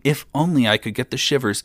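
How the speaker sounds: high-pitched repeated wish; wishful lament. A narrator's reading. Young king endlessly wishing to shiver, lamenting. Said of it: "kept on saying".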